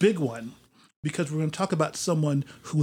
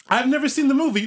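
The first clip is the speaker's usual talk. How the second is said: laughing; 9 semitones higher, 4 dB louder, faster than usual. Real, not acted. Laughing admission about the film.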